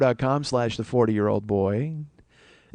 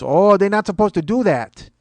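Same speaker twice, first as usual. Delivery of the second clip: higher-pitched fussy complaint; objecting seatmate; 5 semitones higher, 4 dB louder than usual. Retold or imitated. Passenger objecting to reclined seat, fussy seatmate. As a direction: object on someone else's behalf.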